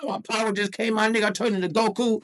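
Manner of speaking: high, strained power-up voice; hammed-up explosive intensity. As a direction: tell it as if transforming mid-sentence. Narrates transforming, in powered-up voice.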